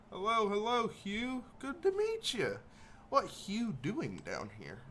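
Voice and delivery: excited goblin. Acted. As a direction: greet him like an overexcited little goblin. Gary greets Hugh.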